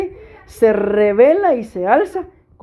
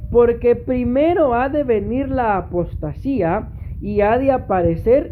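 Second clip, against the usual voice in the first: slow, deliberate reading for emphasis; emphatic scripture reading; 2 semitones higher than usual. Real, not acted. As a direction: stretch out "Porque primero ha de venir la apostasía" with weight. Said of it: "Aquí es donde quiero hacer énfasis".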